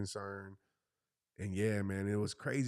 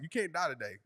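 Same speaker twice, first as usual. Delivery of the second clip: lightly voiced kid, pitched up; ruthless daughter; 6 semitones higher than usual. Daughter to her ailing mom, imitated ruthlessness. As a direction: mimic a child being matter-of-fact, higher. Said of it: "like, ruthless".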